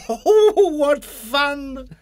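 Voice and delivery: high, loud delighted laugh; gleeful. A narrator's reading. Mister Tickle delighted after tickling, high and gleeful. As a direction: squeal with delight.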